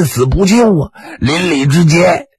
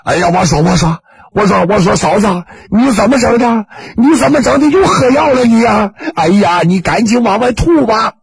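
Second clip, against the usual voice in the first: alarmed outburst; 5 semitones higher than usual. Acted. Ma rushing in to his sister-in-law, alarmed and rising. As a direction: burst in, more frantic each line.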